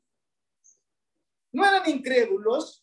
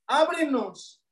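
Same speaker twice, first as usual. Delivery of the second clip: una súplica leve y contenida; pídelo rogando, sin gritar; 2 semitones higher, slower than usual. Retold or imitated. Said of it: "Suplicando, rogando". (las vírgenes ruegan que les abran, en tono suplicante suave)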